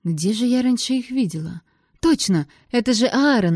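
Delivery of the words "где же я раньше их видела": ordinary delivery, nothing marked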